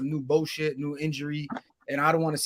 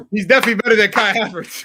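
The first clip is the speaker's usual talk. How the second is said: higher, louder mock praise; sarcastic; 6 semitones higher, 8 dB louder than usual. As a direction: say it dripping with sarcasm. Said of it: "That, that's sarcasm".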